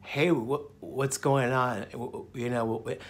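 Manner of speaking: soft, slow, halting imitation of his old self; old timid voice. Imitating how he used to greet people, timid and soft. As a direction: mumble it shyly, stumbling. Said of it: "before I talk like this".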